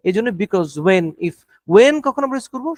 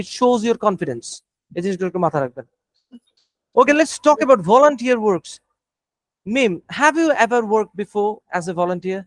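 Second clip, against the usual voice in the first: slow, careful examiner delivery; slow deliberate; slower than usual. Shown as a demonstration. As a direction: spell out each word slowly. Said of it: "মনোযোগ দিয়ে প্রত্যেকটা sentence".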